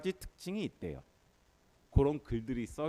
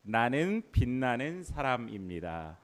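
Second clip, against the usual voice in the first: louder, slow proclamation; loud declaration; 5 dB louder, slower than usual. Shown as a demonstration. Preacher leads congregation in shouting a confession, loud declaration. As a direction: proclaim it loudly and slowly for all to hear. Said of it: "큰 소리로 외쳐보도록 하겠습니다".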